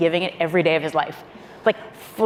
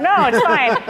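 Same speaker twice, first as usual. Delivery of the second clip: higher, louder, laughing through the words; laughing insistence; 9 semitones higher, 5 dB louder than usual. Retold or imitated. Staffer to the president, laughing nervously.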